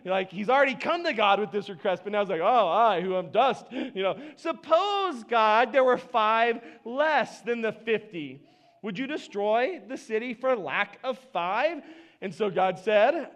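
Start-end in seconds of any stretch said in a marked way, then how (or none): 2.4-11.8 mock-humble, slow wheedling; false humility. Abraham feigning humility while bargaining, wheedling. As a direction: play humble while still asking. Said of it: "it feels a little false".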